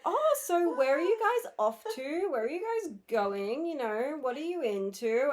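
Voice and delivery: high, rising chatty questions; mock pushy guy questioning the girls; high eager guy. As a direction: chirp it like a keen stranger. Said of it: "he's like".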